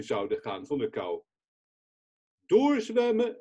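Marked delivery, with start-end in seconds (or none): 2.5-3.4 higher, louder urging shout; calling out. Retold or imitated. Rescuer urges the men to keep swimming, loud call. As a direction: drive the swimmers on with one word. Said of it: "riep ik maar".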